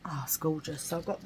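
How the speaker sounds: breathless whisper of delight. Real, not acted. Vlogger admiring her three-quid pomander, whispered. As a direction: whisper it like a treasured secret.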